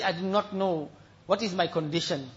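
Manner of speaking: low, soft quoted admission; subdued preaching; humble confession. Retold or imitated. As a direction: drop to a hushed, sober voice. Retells weeping man's humble words.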